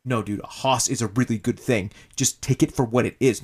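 loud insisting. Acted. Drake insisting in quarrel.

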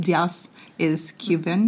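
Diaz said with Spanish vowels, DEE-ahs; Cuban-style Diaz, DEE-ahs; Spanish pronunciation. Shown as a demonstration. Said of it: "Great pronunciation".

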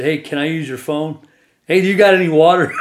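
loud, laughing call after them. Retold or imitated. Calling after the angry workers, loud and laughing. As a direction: shout after the departing trucks.

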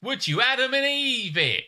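high, drawn-out catchphrase; loud, high-pitched mock incredulity; hammed-up disbelief. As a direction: stretch it out in a squeaky, comic exclamation. Playful rendition of the slang catchphrase.

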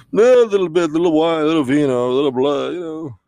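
a lightly voiced tipsy vampire count; Count Sakula voice. Host asks the count if he is drunk, lightly voiced count. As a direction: play the count, a little sloshed and giggly.

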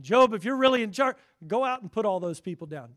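booming, high-pitched challenge to Job; God daring Job, loud and ringing; loud challenge again. Acted. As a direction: thunder the dare at Job. God's challenge repeated.

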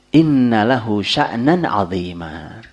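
slow, weighty Arabic line, each word drawn out; solemn Arabic quote. Retold or imitated. Grandfather proudly declaring his grandson's future, slow. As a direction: intone it like a prophecy. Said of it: "Kata Ibn Abdul Muttalib".

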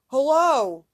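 sudden loud hail of surprise; startled hullo, shouted out loud; loud cry. A narrator's reading. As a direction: call out loud and high. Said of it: "cried he".

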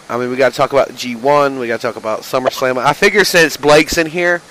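windy mic, like in a wind tunnel. Real, not acted. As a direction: talk into a mic caught by wind. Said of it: "What is going on with your mic right now?".

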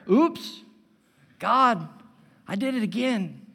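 sing-song sheepish confession, pitch jumps up on Oops; mock pop-song prayer. Preacher mocking a repeat-offender prayer, sheepish and lightly sung. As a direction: toss it off like the pop lyric. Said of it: "the pop-star prayer".

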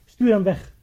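mild mock yell, loud on the final order; retold scream. Storyteller voices the lady ordering the madman out, half-shouted. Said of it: "schreeuwde zij van".

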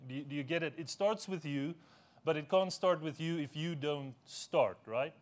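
normal talking voice

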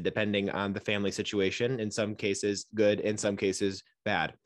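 a mild mock robot nurse; robotic monotone. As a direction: read it out like a machine with no feeling. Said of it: "She's definitely a robot".

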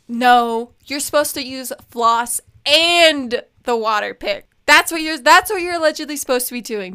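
emphatic, imitated telling-off; imitated scolding. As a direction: lay down the rule like dental staff. Acted scolding by dental staff.

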